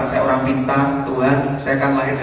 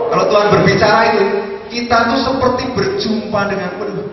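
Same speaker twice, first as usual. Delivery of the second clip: much higher, louder and fast, fired up; louder, higher exultant preaching; fervent preaching; 10 semitones higher, 8 dB louder than usual. Real, not acted. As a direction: preach it with rising fervour. Preacher exalting God's voice.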